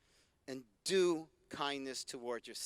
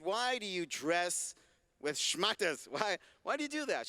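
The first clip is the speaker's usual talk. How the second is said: gentle question. Retold or imitated. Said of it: "very gently I said".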